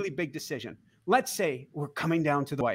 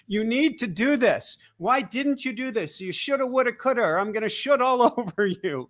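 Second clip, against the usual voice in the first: higher mock scolding inner critic; nagging ego voice; 6 semitones higher than usual. Imitating ego scolding, higher and nagging. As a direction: nag like a pushy inner critic. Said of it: "Ego is always gonna come to you in a voice of".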